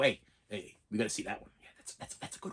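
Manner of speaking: soft, hushed whisper under the breath. Showing how you tell your date about a movie you want to see: whispering. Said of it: "you always whisper it".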